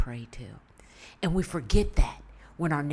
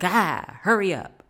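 put-on loud, higher whiny baby cry mixed with words; baby's impatient wail; 3 semitones higher, 9 dB louder than usual. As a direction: wail at them to hurry like a hungry baby. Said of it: "she's like".

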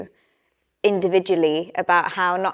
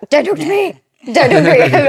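high, loud mock snap, half laughing; mock snappy brush-off; 8 semitones higher, 7 dB louder than usual. Wife acting out telling husband to leave her alone, high mock snap. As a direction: play-act shooing him away.

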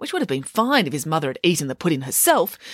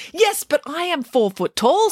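Nanny Piggins voice; 9 semitones higher than usual. Acted.

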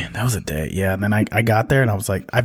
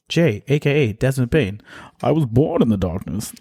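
Bane impression; slower than usual. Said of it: "so that I could do my Bane impression".

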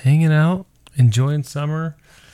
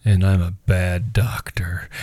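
put-on kid's confession; 5 semitones lower, slower than usual. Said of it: "and she goes".

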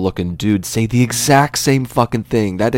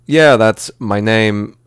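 slow, louder, deliberate movie-star reply; mock-dramatic drawn-out confirmation; Christopher Walken; 2 semitones higher, 5 dB louder, much slower than usual. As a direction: stretch it out with odd weight. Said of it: "Christopher Walken's gonna be like".

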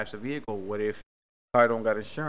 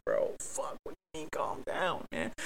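muttered aside; 7 dB quieter than usual. Retold or imitated. Muttering at dispatcher's calm down.

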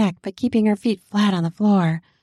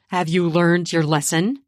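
mildly stern question; forced stern; 2 semitones lower than usual. Acted. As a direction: make yourself sound stern. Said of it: "forcing my voice to be stern".

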